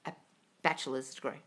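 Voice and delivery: sly whisper. Real, not acted. Answering a viewer on qualifications, sly whisper. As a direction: drop it in an aside whisper. Mocking own qualification aside.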